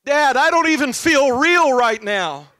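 high, loud, slow tearful wail; imitating tearful child. Father imitates daughter crying after losing the puppy. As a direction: wail it slowly like a heartbroken girl. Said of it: "with tears streaming down her face".

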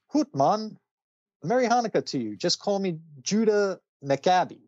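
high, hammed-up Scottish brogue; mock Scottish. Cyborg in kilt greets the Titans, hammed-up Scottish accent. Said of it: "Cyborg dresses up in a Scottish outfit".

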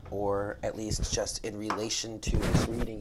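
knocking the mic mid-sentence; bumping the mic while talking. Real, not acted. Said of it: "Sorry, guys, I keep hitting the mic".

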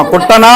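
పుట్టనా with the last "naa" held long; lengthened final vowel. Shown as a demonstration. Teacher correcting a pupil's line ending, long "naa" on పుట్టనా. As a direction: draw out the end of పుట్టనా. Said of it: "దీర్ఘం తీయాలి".

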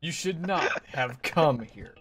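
slow, deliberate warning; mock villain threat. Villain warns intruders in the game, slow mock threat.

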